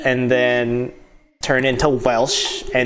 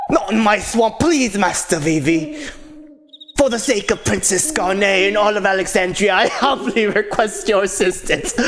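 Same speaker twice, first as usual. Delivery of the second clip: lightly Scottish pleading knight; Shrek; 4 semitones higher than usual. Acted. Knight humbly begs Master Vivi for help, mock Scottish accent. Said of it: "Scottish accent".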